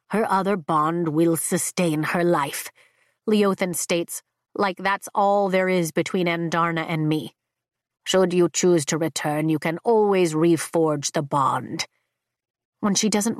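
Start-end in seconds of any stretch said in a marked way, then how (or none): 0.1-2.7 low, measured, ancient dragon; deep dragon voice. Acted. Dragon Leothan speaks. 8.0-11.9 low, measured, ancient dragon; deep dragon voice. Acted. Dragon Leothan speaks.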